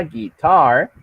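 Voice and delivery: "guitar" with the stress on its last syllable, TAR; stress on final syllable. Shown as a demonstration. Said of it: "tiene su sílaba tónica en el R".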